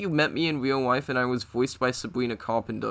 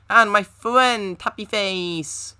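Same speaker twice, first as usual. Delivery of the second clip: slow theatrical villain menace; 5 semitones higher, 3 dB louder, much slower than usual. Acted. Drawn-out dramatic shout out.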